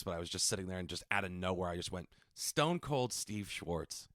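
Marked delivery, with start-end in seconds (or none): 2.3-4.1 slow dramatic name announce; wrestling announcer voice. Shown as a demonstration. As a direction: announce it slow like a ring intro. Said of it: "I can't do the voice".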